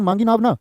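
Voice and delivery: "मांगी नाव ना" in one group, falling on "ना"; break after "ना". Shown as a demonstration. Teacher explaining the second meaning, closing the phrase on "ना". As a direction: keep "ना" with "नाव", then close. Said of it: "यहाँ पर नाव ना मांगने की बात है".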